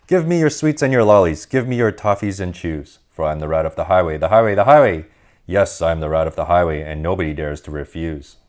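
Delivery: lightly voiced swaggering rat, chanting his demands; a hint of a greedy bandit bragging; boastful highway rat.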